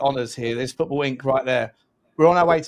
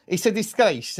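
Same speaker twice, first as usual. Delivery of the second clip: put-on Spanish accent slipping into Italian; mock Italian-sounding manager; Arteta; 3 semitones higher than usual. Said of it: "No, that's Italian".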